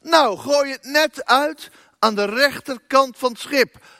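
high, loud call. A narrator's reading. Jesus calls from the shore to the fishermen, high and loud. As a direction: shout the instruction across the water. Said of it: "riep Jezus".

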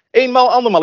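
loud, high auction call; auctioneer. Acted. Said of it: "Ik voel me net zo'n veilingmeester".

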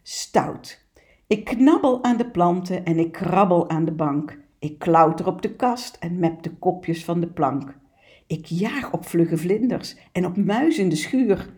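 lively picture-book poem reading, cat speaking; poem read aloud. Acted. Presenter reads the naughty cat poem to listeners, playful reading. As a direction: read it like a cheeky cat boasting.

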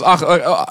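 mock Middle Eastern lament, a touch of it; imitating wailing. Preacher imitating the women of Jerusalem wailing, mild mock lament. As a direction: briefly mimic the women's keening. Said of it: "weeklagen opnieuw op zijn Midden-Oosters".

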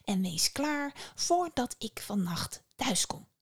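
Venus, slow and demanding. Acted. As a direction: lay down the task like a scornful mother-in-law. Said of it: "zei ze met haar gezicht dicht bij die van Psyche".

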